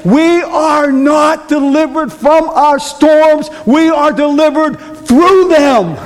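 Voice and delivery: high, slow, emphatic sermon delivery; slow preaching. Acted. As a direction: spell out each word to the flock. Preacher driving home the message.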